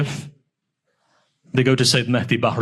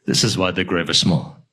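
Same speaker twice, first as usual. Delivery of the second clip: grieving repeat; 7 semitones lower than usual. Acted. Repeated line, second take lower.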